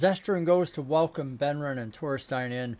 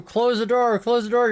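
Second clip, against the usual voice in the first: higher, louder urgent yell; 7 semitones higher, 6 dB louder than usual. Retold or imitated. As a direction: shout it at him to shut the door. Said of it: "Zestra's yelling at you".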